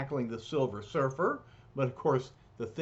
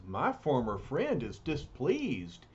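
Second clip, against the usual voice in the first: solemn hero voice. Acted. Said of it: "The surfer realizes".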